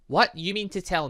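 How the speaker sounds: sharp high shocked yelp. Acted. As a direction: blurt it out in disbelief. Shocked at being left out.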